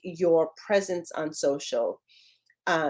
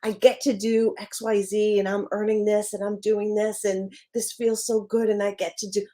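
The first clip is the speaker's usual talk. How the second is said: eager, convinced, pleased with it; upbeat and sure of your good fortune; say it with conviction. Shown as a demonstration. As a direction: sound like you truly believe you get to do this. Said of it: "say that with conviction and accept".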